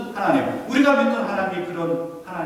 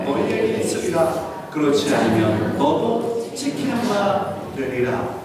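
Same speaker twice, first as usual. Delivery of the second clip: scripture reading aloud. Shown as a demonstration. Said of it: "같이 한번 읽어보겠습니다".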